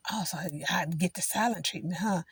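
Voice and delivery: hushed, sneering "silent treatment" jab; mock sarcastic spouse. Arguing spouse taunting the silent one, hushed and sarcastic. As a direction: needle a silent partner under your breath.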